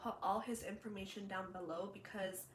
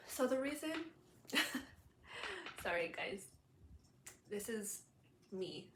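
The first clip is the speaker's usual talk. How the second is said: laughing through tears. Real, not acted. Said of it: "I'm very emotional".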